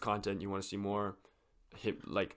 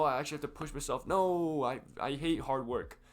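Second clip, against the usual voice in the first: higher-pitched mock protest, stretching out the words; mock reluctance; 5 semitones higher than usual. Gym beginner recalling his dread of hard work, in mock reluctance. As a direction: imitate dreading the effort.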